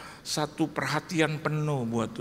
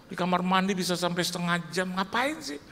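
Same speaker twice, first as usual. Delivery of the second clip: stern wife; 3 semitones higher than usual. Retold or imitated. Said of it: "Saya bilang".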